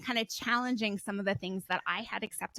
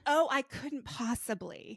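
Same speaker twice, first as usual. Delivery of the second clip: slow, prissy "oh, I couldn't possibly"; mock a dainty guest declining cake; lightly hammed-up polite refusal; prim refusal; 3 semitones higher, slower than usual. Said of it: "mock refusing dessert".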